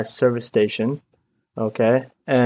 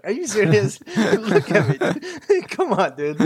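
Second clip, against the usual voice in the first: exasperated disbelief; 8 semitones higher than usual. Real, not acted. Disbelief at being handed box truck.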